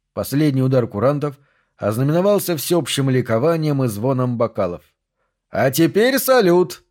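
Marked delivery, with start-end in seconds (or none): 5.5-6.8 put-on high, slow, boyish cheer; boyish glee. A narrator's reading. Sergey grabbing the flare gun, boyish joyful cry. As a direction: crow it like a delighted boy. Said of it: "по-мальчишески радовался Сергей".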